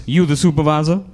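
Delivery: lightly voiced dim-witted caller; caller role. Job applicant questioning the supervisor on the phone, mildly put-on caller voice. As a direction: play a doubtful caller asking, rising at the end.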